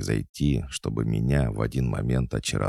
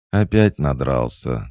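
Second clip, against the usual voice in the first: louder, mildly indignant little complaint; indignant girlish voice; 2 semitones higher, 6 dB louder than usual. Acted. Squirrel girl finding the cat drunk, indignant. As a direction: tut at a drunk, fed up. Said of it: "возмутился девчачий голосок".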